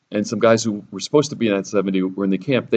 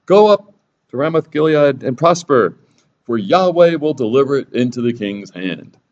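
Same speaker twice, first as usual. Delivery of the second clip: mock prophetic shout; 5 semitones higher, 5 dB louder than usual. Prophets proclaiming together.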